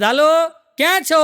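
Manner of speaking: high, slow drawn-out phone greeting; man calling a friend on the phone, high and slow; phone hello. Retold or imitated. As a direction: stretch the hello like a bad line.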